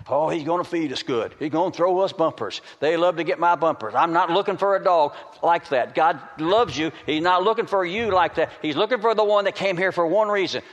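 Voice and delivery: preaching that climbs in pitch; building preaching. Real, not acted. Preacher tells congregation God seeks true worshippers, building in intensity. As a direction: build from talk to an urgent, high-pitched point.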